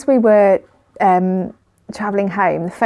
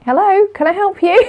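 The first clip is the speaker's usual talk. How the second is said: high, pointed "can I help you"; sharp polite challenge to a stranger; pointed politeness; 12 semitones higher than usual. Retold or imitated. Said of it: "So I kind of went".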